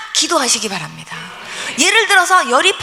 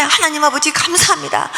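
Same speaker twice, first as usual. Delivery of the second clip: grateful prayer. Retold or imitated. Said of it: "이러고 제가 기도를 했어요".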